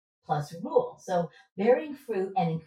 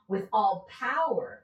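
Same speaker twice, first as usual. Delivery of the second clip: "power" stressed, phrase drawn out slowly; slow down and land firmly on "power"; emphasis on POWER; slower than usual. Shown as a demonstration. Preacher showing where the Greek puts emphasis, stressed "power". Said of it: "putting the emphasis here".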